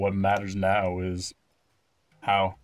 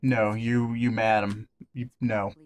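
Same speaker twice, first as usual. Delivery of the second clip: fake British accent. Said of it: "And I'm like".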